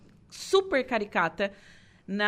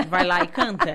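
laughing God quote; 4 semitones lower, 4 dB louder than usual. Retold or imitated. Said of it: "Deus foi lá e disse assim".

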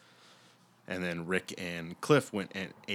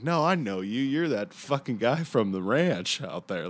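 tripping out; 4 semitones higher, 4 dB louder than usual. Retold or imitated. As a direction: imitate a man on acid placing a face. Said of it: "and he's tripping out".

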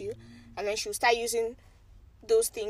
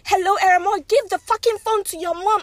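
loud, high-pitched retold outburst; mock furious shouting, pitched up; imitated angry demand; 9 semitones higher, 9 dB louder than usual. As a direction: imitate someone yelling an order down the phone. Imitates angry relative on phone.

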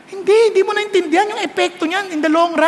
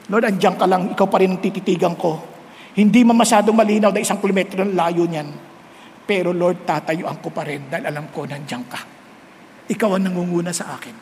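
hushed prayer; 11 semitones lower, 4 dB quieter than usual. Acted.

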